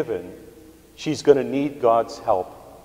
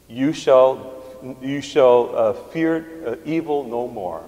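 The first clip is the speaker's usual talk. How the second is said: proclaimed scripture; slower than usual. Acted. Proclaiming scripture verse aloud.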